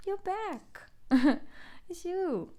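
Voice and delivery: high, delighted greeting with a laugh; thrilled to see them again; high happy voice with a giggle; joyful reunion. Pretend. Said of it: "it's like that".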